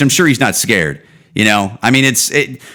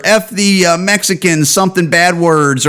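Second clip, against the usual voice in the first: defiant dying man; 7 semitones higher than usual. Retold or imitated. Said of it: "just come out and just go".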